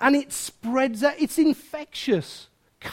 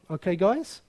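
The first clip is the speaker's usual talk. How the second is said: quiet resolve; 8 semitones lower, 7 dB quieter, faster than usual. Retold or imitated. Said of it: "it takes some people to say".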